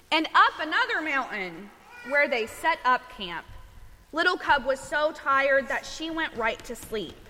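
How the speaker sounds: measured picture-book storytelling; reading to children. A narrator's reading. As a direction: read a bedtime story to little ones, giving each line room.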